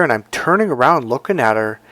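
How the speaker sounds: ordinary talk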